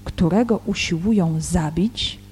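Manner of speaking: solemn Gospel reading with deliberate pauses; scripture reading. Real, not acted. Teacher reads John's Gospel in Polish before commenting, measured scripture reading. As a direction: read the verses out, phrase by phrase.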